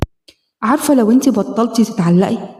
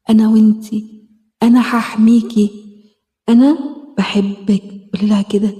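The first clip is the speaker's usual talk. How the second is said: gentle self-help meditation guide; guided healing exercise. Acted. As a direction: talk her gently through the inner-child exercise. Leads a self-hug healing exercise.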